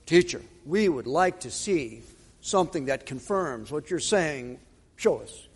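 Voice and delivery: hushed, low pious request; mock religious. Scribes asking Jesus for proof, mock religious. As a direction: ask softly, acting oh so devout. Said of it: "it sounds so religious".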